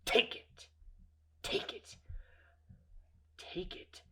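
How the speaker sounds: intense, forceful stage whisper; hushed, menacing command; whispered urging. Retold or imitated. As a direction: repeat the dare in a harsh whisper, with pauses. Repeated menacing dare.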